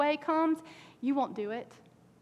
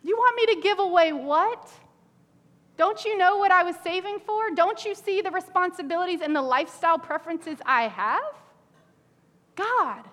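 higher, indignant protest; mock indignant; 5 semitones higher than usual. Preacher acts a believer balking at giving, indignant. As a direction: play the reluctant giver. Voicing complaints to God.

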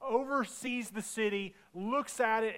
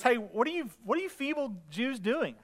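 imitating a scornful bully; acted-out sneering question; mock jeering; 3 semitones higher than usual. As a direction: taunt them with mock disdain. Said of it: "he jeers and he goes".

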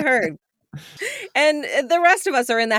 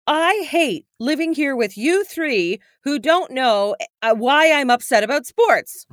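slow, emphatic, higher-pitched complaint; mock angry; 4 semitones higher than usual. Wife imitating husband telling off the family, mock angry. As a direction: spell out the grievance, mildly hammed-up. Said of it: "very angry".

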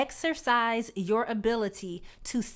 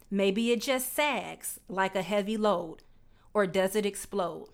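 poem recital. Acted. Vlogger quoting Langston Hughes to viewers, poem recital. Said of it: "your girl is out here quoting Langston Hughes".

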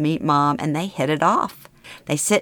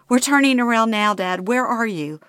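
higher, hurried anxious reassurance; urgent worry; 6 semitones higher than usual. Acted. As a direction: push through the worry. Urgent phone call to father.

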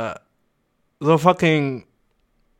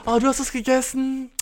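gespielte Verzweiflung; 9 semitones higher, 3 dB quieter, slower than usual. Pretend. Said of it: "So wär ich so".

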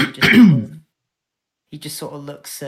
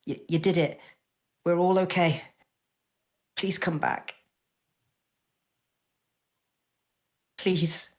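a little higher, halting, tearful plea; tearful pleading; 4 semitones higher than usual. Acted. Spyro begs unconscious Jude to come back, tearful pleading. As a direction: plead as if holding back tears. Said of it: "sort of stops crying".

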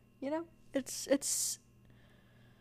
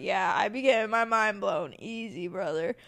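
put-on joke Southern accent; 3 semitones lower, 3 dB louder than usual. Joking with listeners in a mock Southern accent. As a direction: put on a playful Southern twang for a laugh. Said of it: "we would always talk really Southern".

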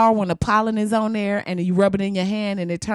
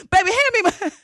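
laughing through a mock grandma request; grandma asking; 10 semitones higher, faster than usual. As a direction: call for the snifter like the queen of the office. Maxine asking for her drink.

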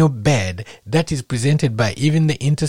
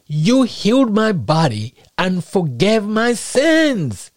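slow quoted prayer; 4 semitones higher, slower than usual. Retold or imitated. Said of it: "He said".

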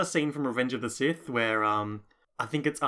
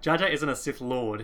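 emphasis landing on "Lord"; stress on Lord. Real, not acted. Host dismissing a fan theory, stressing "Lord". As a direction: lean on the word "Lord" in the sentence. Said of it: "Why did you emphasize Lord there?".

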